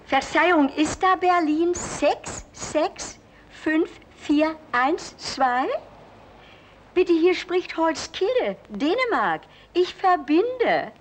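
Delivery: high, slow put-on telephone operator; mother fakes a Danish operator to fool her son. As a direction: disguise yourself as a Danish switchboard operator.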